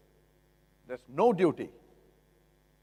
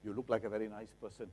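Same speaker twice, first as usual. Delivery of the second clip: lower, coaxing mock flattery; butter up the buyer; flattering seller; 4 semitones lower than usual. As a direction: seller sweet-talking a buyer, lightly voiced. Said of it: "Must the seller come to you and say".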